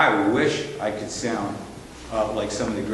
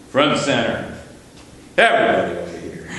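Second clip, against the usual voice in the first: a hint of a ship captain's low-voiced order; lightly voiced captain, dropping low at the end; captain's command; 3 semitones lower, 3 dB louder than usual. Grandpa captain calls his crew together, lightly voiced low command. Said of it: "lower his voice".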